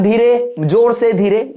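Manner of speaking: "जोर से" pushed up between two gentler "धीरे"; soft-loud-soft pattern. Shown as a demonstration. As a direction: swell on "जोर से", drop back on "धीरे". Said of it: "ये जो पैटर्न दिख रहा है". ("जोर से" पर आवाज़ उठाकर, "धीरे" पर नीचे)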